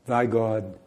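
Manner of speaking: plain, earnest and direct; a pastor savoring Ruth's vow; sincere declaration. Shown as a demonstration. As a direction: say it as a heartfelt promise. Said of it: "direct and sincere".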